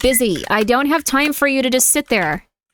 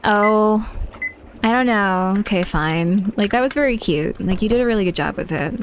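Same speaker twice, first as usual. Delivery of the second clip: put-on Valley Girl voice. Shown as a demonstration. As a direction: sound like a bored valley girl. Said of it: "redeem Valley Girl voice".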